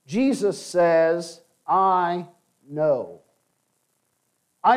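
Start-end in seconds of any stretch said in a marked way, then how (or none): 1.6-3.2 "know" leaned on, set apart after a pause; stress on KNOW. Shown as a demonstration. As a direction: linger on "know" to drive it home. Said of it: "I would emphasize the second word".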